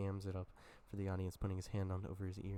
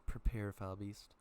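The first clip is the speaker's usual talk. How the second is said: louder, slow stage-prompt of "Prepare, foul beast"; feed the line up from below, louder and slower; 5 dB louder, slower than usual. Retold or imitated. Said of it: "feeding him in his next line".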